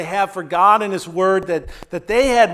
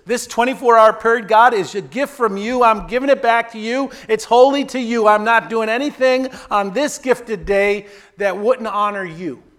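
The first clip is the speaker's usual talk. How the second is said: believer's prayer; 4 semitones higher than usual. Acted. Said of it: "we say".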